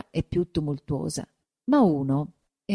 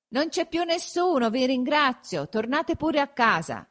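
anxious dismissal; 9 semitones higher than usual. A narrator's reading. Curate thanking villagers and sending them home, high anxious dismissal. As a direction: send them home in a raised pitch. Curate answers crowd from window.

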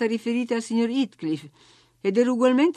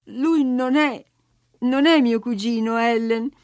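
amareggiata; 4 semitones higher, 5 dB louder than usual. Acted. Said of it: "continuò lei ancora più amareggiata".

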